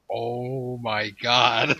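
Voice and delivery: very drawn-out, stunned reaction; retold shock. Viewer finally seeing the censored scene, mock stunned. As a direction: stretch it out in mock disbelief.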